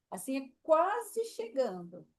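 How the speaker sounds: slow demo. Shown as a demonstration. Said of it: "Assim é chegar".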